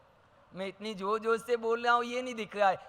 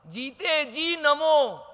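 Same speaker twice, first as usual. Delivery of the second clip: slow, higher, drawn out नमो; solemn stress; 6 semitones higher, 4 dB louder, much slower than usual. Real, not acted. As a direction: stretch नमो slowly with weight. Key word drawn out. (नमो को धीरे, ऊँचे, खींचकर)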